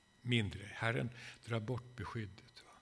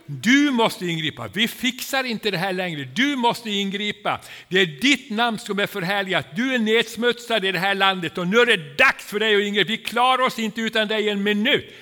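loud, high, desperate plea to God; crying out to God; 9 semitones higher, 15 dB louder than usual. Shown as a demonstration. Preacher showing the congregation real desperate prayer, shouting high. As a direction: storm heaven with it, full voice. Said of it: "skriker till honom att han måste ingripa".

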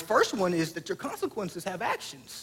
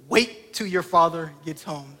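slow mock warning; 3 semitones lower than usual. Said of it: "the words that every mother has said".

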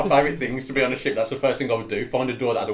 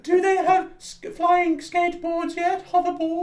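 slow, very high wailing question; hammed-up falsetto ghost; 3 dB louder, slower than usual. Eighties ghost asking about hoverboards, slow high wail. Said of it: "Oh, I'm being the ghost".

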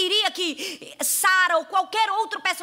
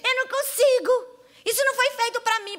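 mock whining; 7 semitones higher, 3 dB louder than usual. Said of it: "parar com essa história de dizer".

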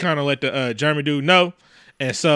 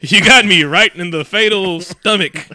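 slow, hammed-up death speech; mock-mortally wounded; melodramatic dying man; 3 semitones higher, 4 dB louder than usual. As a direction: drag it out like a movie death. Acts the shot man dying.

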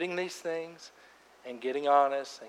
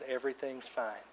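mock everything's fine; 2 semitones lower, 9 dB quieter than usual. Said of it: "we gotta quit saying is".

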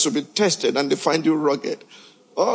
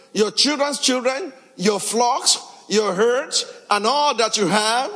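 Joseph's voice; 4 semitones higher than usual. Acted. Preacher voices Joseph's message.

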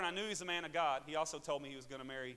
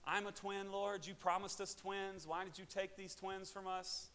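slow, higher, softened plea; crying out to God; 3 semitones higher, 5 dB quieter, slower than usual. Retold or imitated. Grieving father questions God over lost twins, crying out. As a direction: draw out a pained question to God. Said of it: "just crying out to God".

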